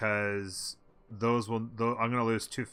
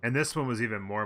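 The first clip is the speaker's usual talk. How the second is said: frustrated; 3 semitones higher, 5 dB louder than usual. Real, not acted. Frustrated outburst.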